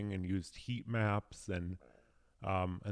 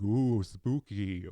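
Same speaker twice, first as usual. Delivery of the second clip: mock spooky; 5 dB louder, much slower than usual. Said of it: "getting in my face being like".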